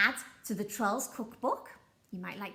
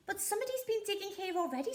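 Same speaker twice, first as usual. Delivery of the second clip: pirate voice; 10 semitones higher, much faster than usual. Acted. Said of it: "said Ben Buckle".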